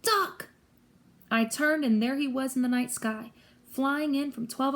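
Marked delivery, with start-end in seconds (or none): 0.0-0.5 high-pitched urgent yell; yelled warning. A narrator's reading. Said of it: "Grover yelled".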